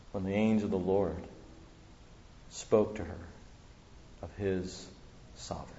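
solemn hushed sermon close. Acted. Solemn closing reflection.

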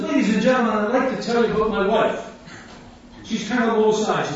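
street preaching. Retold or imitated. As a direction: call out to the crowd at the bus stops. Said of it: "And so I said".

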